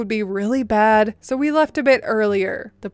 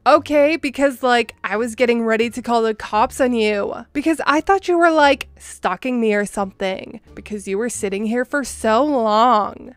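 put-on Valley Girl voice. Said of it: "a somewhat condescending Valley Girl-like accent".

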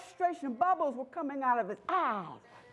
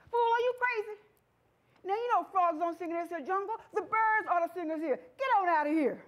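lightly acted scoffing, pitched high at first; mock scolding; 4 semitones higher than usual. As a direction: scoff at a foolish friend, playfully. Frog friends scoff at the singer.

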